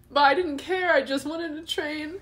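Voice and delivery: real tears, voice high and breaking; crying and laughing, can't stop; crying, worn out. Real, not acted. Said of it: "I can't stop crying".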